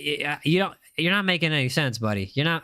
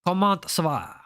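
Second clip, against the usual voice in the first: smoother second go at French with a French accent. Shown as a demonstration. Streamer repeating his French greeting to chat, smoother French accent. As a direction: run the French greeting in one breath, French accent. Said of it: "I know it was a terrible accent".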